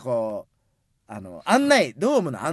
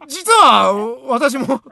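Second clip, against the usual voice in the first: coy confession; 6 semitones higher, 7 dB louder, slower than usual. Acted. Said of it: "頭痛い。もうこれは、やめて".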